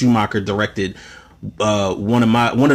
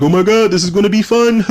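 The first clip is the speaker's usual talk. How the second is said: high, silly mock-scientist voice; goofy Baxter; 8 semitones higher, 3 dB louder than usual. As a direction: play him as a giddy goof. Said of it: "be like".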